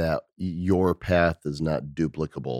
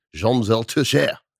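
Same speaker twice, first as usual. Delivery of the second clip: put-on French accent, pitched up and raised; 6 semitones higher, 6 dB louder than usual. Saying someone's full name with a French accent. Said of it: "I want to say your name with a French accent".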